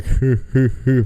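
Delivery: a light imitation of a thick Tennessee accent hooting; mock Tennessee drawl on "Hoo, hoo, hoo". Imitating the injured cousin in a mild Tennessee accent. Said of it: "thick Tennessee accent".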